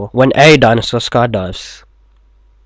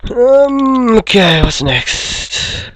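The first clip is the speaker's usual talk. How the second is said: high voice; 12 semitones higher, 4 dB louder, much slower than usual. Acted. High put-on voice continues.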